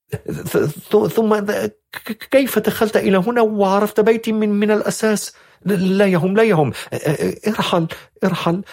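high, stammering and frightened; fearful stammering. A narrator's reading. Frightened young woman ordering the stranger out, stammering. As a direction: trip over the words in fear. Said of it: "تتحدث بعنف وعصبية وخوف وبكاء".

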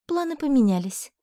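guarded heroine answering the professor; cautious. A narrator's reading. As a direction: say it warily, feeling your way. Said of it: "осторожно ответила я".

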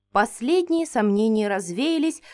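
usual speaking voice

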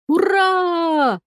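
high happy squeal of welcome; joyful cat squeal. Acted. Cat greeting his niece with a joyful squeal. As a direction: squeal it out with pure joy. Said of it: "раздался радостный кошачий визг".

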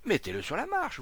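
high, urgent call; urgent order. A narrator's reading. Onlooker to the man carrying him, urgent order. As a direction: shout it over the crowd.

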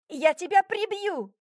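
high, furious threat barked upward; enraged girl yelling down from a tree; angry bark. A narrator's reading. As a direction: snap it like you mean to kill him. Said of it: "рявкнула я в ответ".

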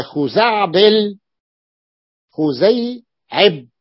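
slow, drawn-out خزعبل then خزيعب; slow demo. Shown as a demonstration. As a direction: stretch the words so the pattern shows. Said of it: "teacher demonstrating diminutive".

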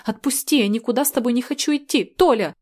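high, loud, fast pleading shout; panicked shouting. Acted. Girl begs Tolya to let go, loud frightened shouting. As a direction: fight him off with your voice, rising to his name. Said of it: "в панике закричала я".

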